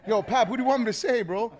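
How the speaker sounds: high, laughing and fast. Retold or imitated. Chino asks Pap what to say, laughing high and fast. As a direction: laugh through the question.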